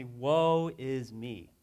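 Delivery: slow, heavy lament; slow sorrowful woe. Shown as a demonstration. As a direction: let the words sink with grief. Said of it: "so sad and tears are streaming".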